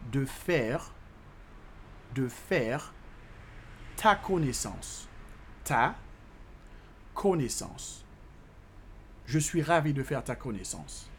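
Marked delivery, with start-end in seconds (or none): 0.1-8.0 chunk by chunk with long pauses; slow teaching repetition; slow breakdown. Shown as a demonstration. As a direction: leave room after each piece for repeating. Teacher breaks French phrase down.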